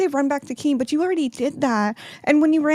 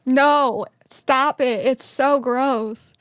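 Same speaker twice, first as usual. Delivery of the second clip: disgusted; much slower than usual. Real, not acted. Disgusted, drawn out.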